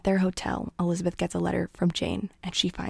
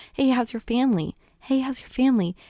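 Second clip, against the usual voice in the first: brisk, raised-pitch friendly question; repeated eager asking; 5 semitones higher than usual. Retold or imitated. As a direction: keep asking, imitating an eager suitor. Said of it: "Bingley keeps asking".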